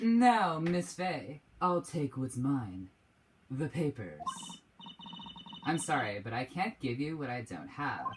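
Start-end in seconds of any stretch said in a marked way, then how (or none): 0.6-4.2 gaudy, flashy, wealthy businessman voice. Voicing a rich, gaudy businessman who demands papers from miss fey: gaudy rich businessman voice. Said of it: "like, "Oh," kind of voice".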